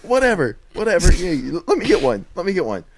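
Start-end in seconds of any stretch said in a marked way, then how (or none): 1.7-2.8 squeaky high ask for a turn; high little voice asking to go; high-pitched ask. Real, not acted. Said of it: "You said that in the highest pitched voice ever".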